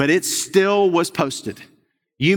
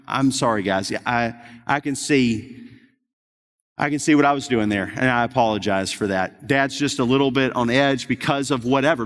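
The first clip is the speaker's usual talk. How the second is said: apologetic dad; 4 semitones lower than usual. Retold or imitated. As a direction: gently own up to snapping. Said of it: "what I've just been".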